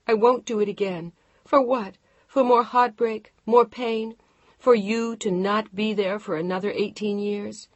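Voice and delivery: furious wife shouting; angry outburst. Acted. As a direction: rage at him and refuse. Wife's furious outburst at husband.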